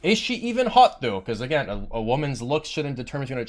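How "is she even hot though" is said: high-pitched teasing question, retold; joking. Retelling own quip to a teammate, jokingly. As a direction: toss it out as a joke. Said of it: "jokingly again".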